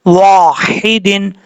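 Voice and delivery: slow वाहिदिन with a light हा; recited slowly. Shown as a demonstration. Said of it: "इसको बारीक पढ़ना है". (धीमी तिलावत)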